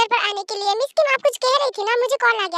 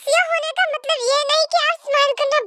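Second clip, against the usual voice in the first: tipsy. Acted. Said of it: "जबकि तुमने पी रखी है".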